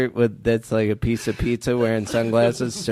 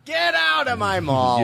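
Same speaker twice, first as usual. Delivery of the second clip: much higher, slow, bossy shout; mall cop shout; 11 semitones higher than usual. Pretend. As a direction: throw them out like a mall cop.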